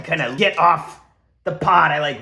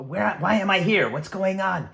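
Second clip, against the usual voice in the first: higher, panicky questions; panicked; 5 semitones higher than usual. Pretend. Waking trapped in a cryopod, panicky questions. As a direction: wake up confused and scared.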